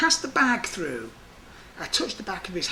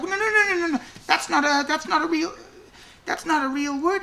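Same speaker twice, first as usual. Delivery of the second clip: loud, much higher no-no-no; loud objection; 12 semitones higher, 8 dB louder than usual. Retold or imitated. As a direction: object hard, caught up in the game. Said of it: "I'm saying, like".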